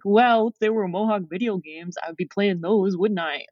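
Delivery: mock retort to a nagging parent; sarcastic. Guest retelling their own thought about parents' nagging, sarcastic. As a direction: answer back with mild sarcasm. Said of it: "sarcastically think to myself".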